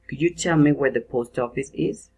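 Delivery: "is" tilted up at the end; rising question intonation. Shown as a demonstration. Teacher reads an indirect question for students, rising at the end. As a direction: end "is" going up. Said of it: "rising intonation".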